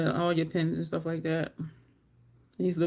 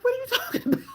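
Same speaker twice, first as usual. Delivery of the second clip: high-pitched, laughing disbelief; incredulous; much faster than usual. Retold or imitated. Soldier hearing the sergeant's truck caught fire, incredulous. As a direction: squeak out a baffled question through a laugh.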